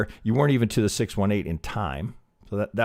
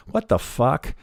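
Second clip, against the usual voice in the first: What the fuck said higher, a baffled burst; confused outburst; 5 semitones higher, slower than usual. Shown as a demonstration. Trader showing students his reaction to a triangle, baffled. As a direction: let the what jump up in disbelief. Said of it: "That's how I say it".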